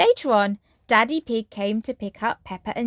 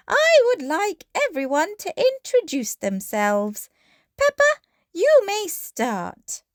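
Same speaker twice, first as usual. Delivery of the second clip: teacher voice; 10 semitones higher than usual. A narrator's reading. Madame Gazelle voiced.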